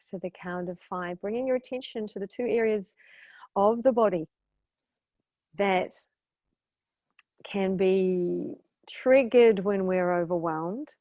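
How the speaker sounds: calm meditation guide, pausing between thoughts; guided meditation. Real, not acted. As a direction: lead them through relaxation, leaving room after each phrase.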